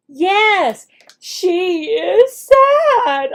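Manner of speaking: hammed-up teacher delight; emphatic answer. Shown as a demonstration. Teacher confirms the answer for the student, loud and slow. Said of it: "teacher acts out the lesson".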